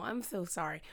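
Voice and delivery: whispered apology; soft unvoiced sorry. Real, not acted. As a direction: breathe the apology under your breath. Apologizing softly mid-story.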